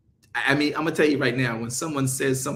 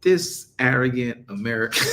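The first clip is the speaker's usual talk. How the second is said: mock disdain. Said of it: "looking at me like".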